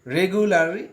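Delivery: রেগুলারাইজেশন said slowly, every syllable clear; careful classroom repetition; slow repeat. Shown as a demonstration. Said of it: "আমরা আরেকবার বলি".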